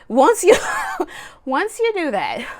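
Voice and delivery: breaking into a laugh mid-phrase; laughing through words. Real, not acted. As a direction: try to speak while a laugh bursts out. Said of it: "uncalled for".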